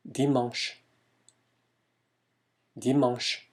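dimanche with nasal "an" leaning toward "uh"; French pronunciation demo. Shown as a demonstration. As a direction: model dimanche as "dee-mahng-sh". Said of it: "멍이 약간 어에 가까운 발음에".

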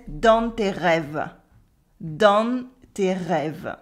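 slow southern French "dans tes rêves", N sounded, rêves in two syllables; southern French: dan-n tay reh-vuh, drawn out; southern French accent. Shown as a demonstration. French teacher copying the character's southern French accent, slow "dans" with an N. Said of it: "pronouncing the N in nasal vowels".

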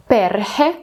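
перхе, with the beat on пер; first-syllable stress. Shown as a demonstration. Teacher showing learners Finnish first-syllable stress on перхе. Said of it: "він завжди на перший склад".

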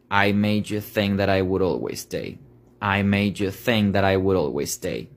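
the whole line linked at normal pace; fluent linked lyric; full linked line. Shown as a demonstration. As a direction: say the lyric smoothly. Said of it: "a partir de esto".

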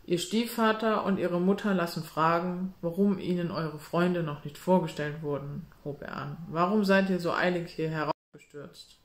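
monotone voice. Acted. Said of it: "eintönigen und langweiligen Stimme".

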